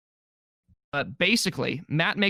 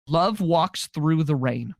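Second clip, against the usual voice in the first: mock romantic; much slower than usual. Shown as a demonstration. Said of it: "my favorite quotes in this movie".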